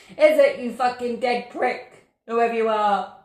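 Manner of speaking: slow taunt. Real, not acted. Taunting the ghost.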